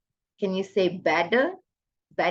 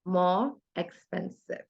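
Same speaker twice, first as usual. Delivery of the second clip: slow model answer; 4 dB quieter than usual. Shown as a demonstration. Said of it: "So how do you write this?".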